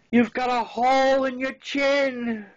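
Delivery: high, loud, slow panicked scream; mom screaming. Retold or imitated. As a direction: shriek it like a frightened mom. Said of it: "and screams".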